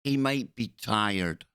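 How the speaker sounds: slow, dripping sarcasm; bitter sarcasm. Retold or imitated. Echoing the Prime Minister's excuse, slow and bitter. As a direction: drag it out in disbelief.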